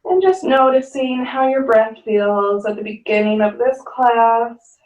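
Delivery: calm yoga teacher guiding the breath; guided yoga instruction. Acted. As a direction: talk the class gently down into the pose.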